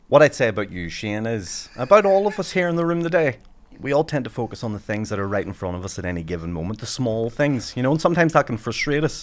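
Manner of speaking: polished inspirational keynote delivery, lightly done; keynote speaker voice. Shown as a demonstration. Comedian mocking a keynote speech to friends, lightly inspirational. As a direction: address the room like a paid motivational speaker. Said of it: "there's a sample for you".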